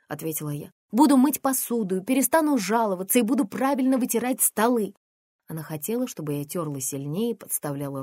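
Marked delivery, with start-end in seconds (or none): 0.9-4.9 pleading promise. Acted. Daughter pleading during fight.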